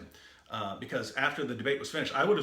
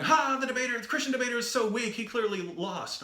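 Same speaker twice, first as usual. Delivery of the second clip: mocking gloat; 9 semitones higher than usual. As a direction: crow that the other side lost. Audience gloating over weak debater.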